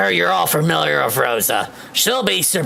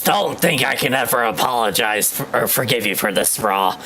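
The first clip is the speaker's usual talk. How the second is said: Senator Armstrong voice. Acted. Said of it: "my best Senator Armstrong impression".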